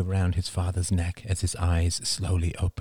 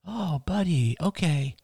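murmured comfort; 10 semitones higher than usual. A narrator's reading. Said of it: "murmured Ian".

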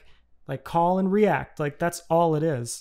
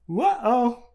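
higher comic whoa; cartoon whoa; 5 semitones higher than usual. Comic acting out a pratfall, cartoon whoa. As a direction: yelp as if slipping. Imitated reaction to a cartoon slip.

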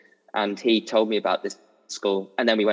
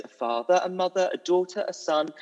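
Bert's intro; 8 semitones higher than usual. Retold or imitated. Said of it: "and Bert goes".

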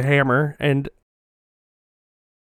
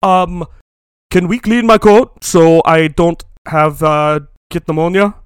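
put-on actor; 5 dB louder than usual. Voices timid actor asking director.

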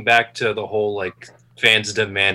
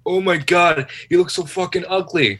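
mock disgust; 9 semitones higher, 4 dB louder than usual. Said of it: "everybody and their mother was like".

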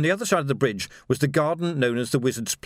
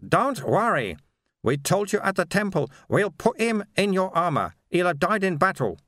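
higher-pitched, lightly voiced mentor; Sweeper reassuring; 6 semitones higher than usual. Sweeper tells Vimes about Keel's body, reassuring.

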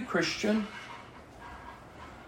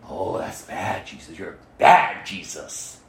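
mock whine; 14 semitones lower, 3 dB quieter than usual. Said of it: "as you".

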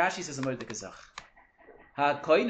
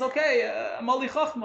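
1 high bright realization; 8 semitones higher, 4 dB louder than usual. Retold or imitated. Voicing the wise man at end.

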